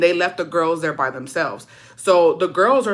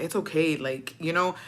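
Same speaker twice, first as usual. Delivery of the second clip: gentle reassurance; 7 dB quieter than usual. Retold or imitated. Brother consoling his crying sister on the way back, gentle reassurance. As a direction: lightly imitate a brother soothing his sister. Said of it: "telling me it was gonna be okay".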